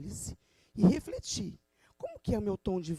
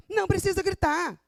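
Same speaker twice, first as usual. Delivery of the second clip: resposta gritada; 9 semitones higher, 5 dB louder than usual. Acted. Encenando uma discussão que escala.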